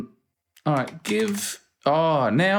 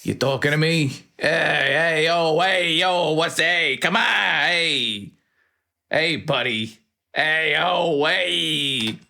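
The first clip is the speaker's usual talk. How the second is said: put-on Bruno's accent; 3 semitones higher, slower than usual. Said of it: "with this accent built in".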